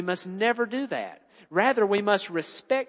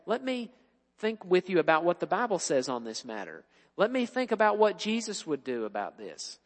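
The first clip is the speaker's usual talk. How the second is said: softer, gentle fatherly reassurance; considerate father; 4 dB quieter than usual. Retold or imitated. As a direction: speak like a patient, caring dad. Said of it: "with a very considerate attitude".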